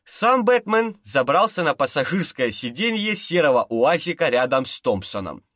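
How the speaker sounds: ordinary delivery, nothing marked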